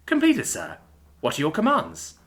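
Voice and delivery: a lightly voiced obedient system voice; AI assistant voice.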